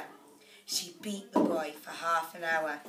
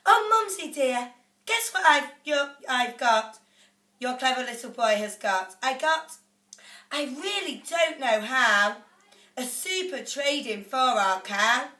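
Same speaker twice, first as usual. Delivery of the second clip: put-on much higher, louder eager boy's voice; a proud little boy bursting with news; excited boy; 4 semitones higher, 6 dB louder than usual. A narrator's reading. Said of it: "and said".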